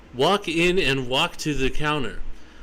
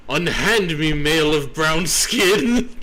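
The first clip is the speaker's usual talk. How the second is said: grand mock command; 4 dB louder than usual. Plague doctor commanding manager.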